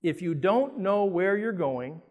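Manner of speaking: If you don't know where you're going said slowly, stretched out, then any road will get you there lifted; drawn out and weighty, pausing before the second half; slow, deliberate repeat. Shown as a demonstration. Repeating the Cheshire Cat line slowly so the room hears it. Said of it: "repeated slower".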